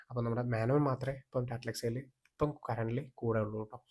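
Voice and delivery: hushed aside, slow and breathy; whispering. Real, not acted. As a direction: drop to a secret whisper. Aside about friend still there.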